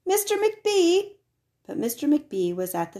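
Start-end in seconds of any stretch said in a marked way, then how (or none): 0.1-1.1 high, slow, drawn-out call down the hall. A narrator's reading. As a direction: call him from the floor, hurt. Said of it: "she called after a minute".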